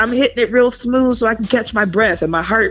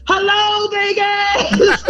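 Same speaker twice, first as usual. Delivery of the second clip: high, strained mock hello to a crowd; imitated breathless high-pitched shout-out; winded stage greeting; 13 semitones higher, much slower than usual. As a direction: greet the audience with no air left. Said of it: "literally here's how it went".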